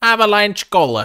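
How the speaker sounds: very high, exaggerated, hammed-up mock English accent. Saying a name as an impression: Dick Van Dyke English accent. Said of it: "That's my impression of Dick Van Dyke doing an English accent".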